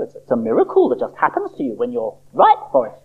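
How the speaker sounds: a hint of a soothing old doctor; lightly voiced doctor. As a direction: pat the patient on the head with your voice. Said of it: "replied the doctor".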